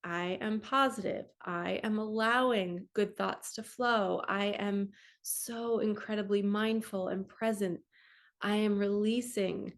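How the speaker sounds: slow, calm positive I am statements; slow affirmations. Shown as a demonstration. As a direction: state each one unhurried and sure. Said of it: "And then you say".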